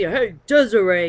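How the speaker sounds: put-on a half-hearted Italian guy hailing Desiree in a shaky accent; bad Italian accent. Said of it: "I'm not very good with my Italian accent".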